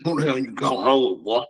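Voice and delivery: a hint of a touchy old man; mildly grumbling old-timer. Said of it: "that's that old man voice".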